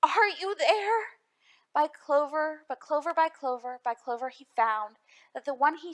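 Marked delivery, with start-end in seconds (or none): 0.0-1.2 called. A narrator's reading. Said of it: "searched them and called".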